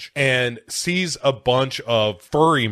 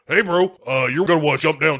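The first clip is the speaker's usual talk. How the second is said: mystery voice; 3 semitones higher, much faster than usual. Acted. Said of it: "you hear this voice go".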